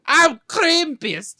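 slow loud high monster voice; Krampus voice. Pretend. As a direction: growl it like a holiday demon. Joke intro as Krampus.

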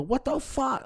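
squawked re-enactment of losing it; retold flip-out. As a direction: act out freaking out, voice shooting up. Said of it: "Like, I flip".

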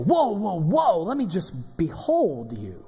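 playful awed whoa, slowing into behold you; husband amazed at his dressed-up wife; mock awed husband. Husband sees wife dressed for dinner, mock awe. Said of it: "and you go".

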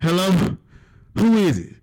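nervous phone answer. Retold or imitated. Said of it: "he pick up the goddamn phone".

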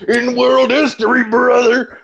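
mock hype. Hyping Eagles rivalry.

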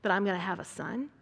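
quick, mildly mocking retort; mock-indignant challenge; mocking disbelief. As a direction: act out incredulous scoffing, lightly. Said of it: "mocked him, saying".

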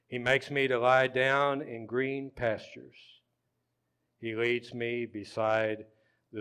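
measured scripture reading with long pauses; slow Psalm reading. Real, not acted. Pastor reading for the congregation to think about, slow and deliberate. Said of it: "We're just gonna read it slow".

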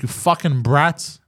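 angry muttered curse. Retold or imitated. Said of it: "I'm so angry at these fucking kids".

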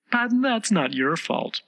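high, slow, consoling tone; kindly. A narrator's reading. The Rose excuses Alice's untidiness, kindly. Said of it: "the Rose added kindly".

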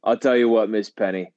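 macho seducer. Pretend. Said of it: "way too much of Andrew Tate".

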